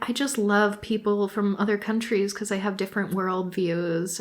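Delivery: soft, airy imitation of the mom; mock innocent woman. Mom claiming she just loves other cultures, mock innocent. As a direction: quote her softly, lightly mocking. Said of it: "this is the woman who's like".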